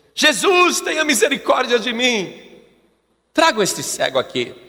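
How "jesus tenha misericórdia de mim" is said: mock shouted, begging cry for help. Preaching the story of a blind man calling out to jesus: retelling a shouted plea. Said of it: "Está lá o cego gritando".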